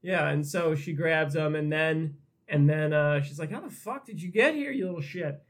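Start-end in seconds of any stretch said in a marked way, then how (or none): 3.5-5.4 high-pitched start, dropping at the end; lightly acted outraged question; mock indignant disbelief. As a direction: imitate someone confronting an unexpected visitor. Acting her confronting the boy.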